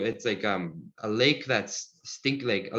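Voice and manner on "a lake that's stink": slow sounded out. Shown as a demonstration. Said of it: "like a through".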